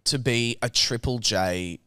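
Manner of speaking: slow down like a radio presenter; radio host voice. Pretend. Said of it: "you're gonna hear this voice a little more".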